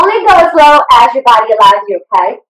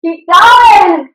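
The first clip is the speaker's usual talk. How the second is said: higher, louder shouted push; shouted keep going; coaching shout; 5 semitones higher, 5 dB louder than usual. Real, not acted. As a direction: yell it to drive them on. Coach pushing class, loud shout.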